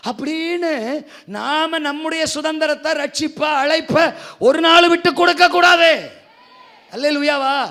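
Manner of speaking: loud, slow preaching warning; exhorting shout. Acted. Pastor warns the church not to give up, loud slow exhortation. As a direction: urge them hard, slow and loud.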